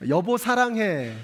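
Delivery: slow, sweetly drawn-out honey; lightly hammed-up loving call; mock tender. Pastor mimics a husband saying I love you, slow and sweet. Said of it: "사랑해를 경상도 버전으로 하면".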